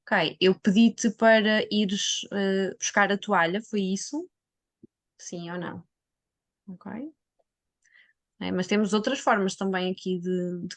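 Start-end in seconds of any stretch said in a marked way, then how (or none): 0.0-6.9 slow, patient check-back question. Acted. Carer checking a family member understood, slow and patient. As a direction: ask it gently, one piece at a time. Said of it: "E depois disto podemos".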